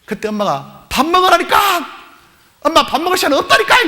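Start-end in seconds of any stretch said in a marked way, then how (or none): 0.9-1.6 high, loud exasperated shout; mother's nagging yell. Acted. Mother to child rushing out late, exasperated yell. 2.6-3.8 high, loud protest; child's exasperated yell. Acted. Late child to mother at breakfast, exasperated yell.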